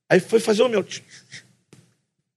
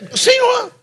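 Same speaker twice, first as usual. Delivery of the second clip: mock shout; slower than usual. Preacher re-enacting the barista calling out for him. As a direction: shout it across the café.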